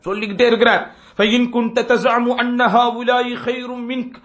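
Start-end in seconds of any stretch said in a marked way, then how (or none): 1.2-4.2 slow, measured Arabic quote; slow Arabic recitation. Retold or imitated. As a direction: draw out each Arabic word. Quoting Arabic words slowly. (மெதுவான அரபு ஓதல்)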